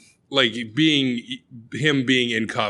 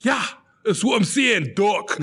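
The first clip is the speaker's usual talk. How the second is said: excited insistent caller; 10 semitones higher than usual. Retold or imitated. Repeats the insistent caller line.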